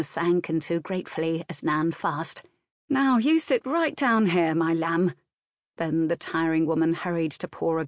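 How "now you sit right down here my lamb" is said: lightly voiced nurse, soothing her lamb; motherly old nurse. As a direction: comfort her like a child, gently. Nurse fusses.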